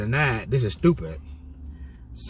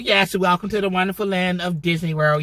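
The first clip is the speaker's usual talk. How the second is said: higher, sing-song theme park welcome; Disney World greeter; 7 semitones higher than usual. Retold or imitated. Aide imitating a Disney World host, high bright sing-song welcome. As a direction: lay on the park-host cheer. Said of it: "like the white people that work at Disney World".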